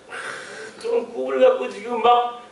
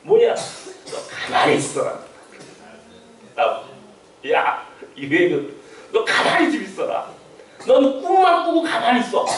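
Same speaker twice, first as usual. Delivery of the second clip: voicing God. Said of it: "하나님 내게 딱 말씀하시고".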